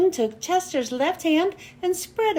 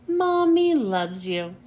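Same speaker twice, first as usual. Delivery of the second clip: tender; 4 semitones lower than usual. Acted. Mother demonstrates the loving thought.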